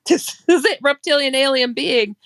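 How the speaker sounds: excited exclaim. Retold or imitated. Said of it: "I exclaimed to my friend".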